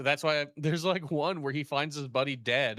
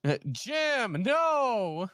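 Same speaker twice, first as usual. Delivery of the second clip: high, lightly hammed cry of "Jim, no"; mock Neil Breen; 7 semitones higher, much slower than usual. Echoing the movie scene for friends, flat mock grief. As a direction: deliver it like a wooden actor. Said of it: "In that exact same tone".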